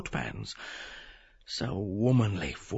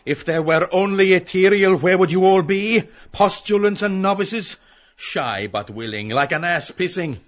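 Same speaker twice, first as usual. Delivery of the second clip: cold; 6 semitones higher, 10 dB louder than usual. Acted. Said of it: "Bloom, coldly".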